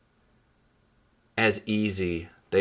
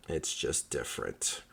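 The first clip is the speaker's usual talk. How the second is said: softer echo; 7 semitones lower, 10 dB quieter, slower than usual. Real, not acted. Repeat softly.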